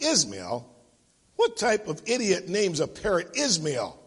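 incredulous scoff at a silly name. Acted. Thief mocking the parrot's name, scoffing. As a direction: repeat the name as a scornful question. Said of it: "The man scoffed".

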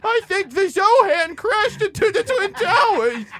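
Adam Sandler voice. Pretend. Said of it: "Adam Sandler caller continues".

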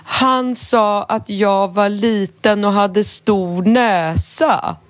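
put-on slow, mildly hurt child's complaint; a light hint of a wounded kid telling on someone; upset little boy. The boy explaining to the teacher, slow childish whine. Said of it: "då säger den här pojken så här".

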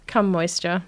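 "come moisture" as plain English words; deadpan "come moisture" as a greeting; teasing mispronunciation. Pretend. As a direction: play along with an anglicised "come moisture". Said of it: "to say, "How are you?".

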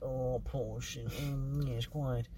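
lightly mock an upper-class actor; a hint of a snooty rich man; mock posh. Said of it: "rich and poshy".

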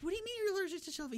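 fast, high, disbelieving rush of words; incredulous rapid question. Retold or imitated. Townsfolk grilling the man who refuses the vaccine, fast and incredulous. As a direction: fire it off in disbelief, quick and high. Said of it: "They're like".

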